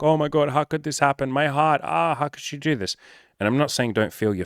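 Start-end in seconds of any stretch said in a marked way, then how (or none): 0.0-3.0 higher, whiny mock despair; mock tantrum. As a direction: ham up a dramatic heartbroken tantrum. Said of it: "throw a fucking tantrum and be like".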